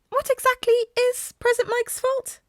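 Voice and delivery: put-on courteous small principal addressing the boys; Nezu voice. A narrator's reading. Nezu's voice.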